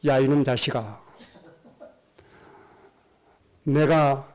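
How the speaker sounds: retold stern warning, composed and measured; firm, dignified rebuke. Pastor retelling his rebuke of a cursing fellow pastor, firm but dignified. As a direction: put mild weight in the voice, stay dignified. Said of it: "목소리 힘을 딱 주고 점잖게 얘기했죠".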